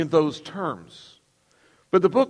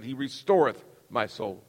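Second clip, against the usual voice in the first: King James reading; 5 semitones lower, 5 dB quieter than usual. Shown as a demonstration. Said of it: "I like the way K J V says it".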